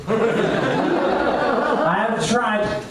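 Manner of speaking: laughing it out slowly. Shown as a demonstration. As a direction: say it through a laugh. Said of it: "Smooth move".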